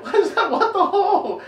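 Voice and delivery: very high, loud comic dad rant; mock outraged yelling. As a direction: shriek it in exaggerated disbelief. Father's comic outburst at his son.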